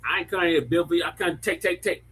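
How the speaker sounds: lightly done African accent, quick; a hint of a West African lilt on the quote. Shown as a demonstration. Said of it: "how do you say it in the African accent".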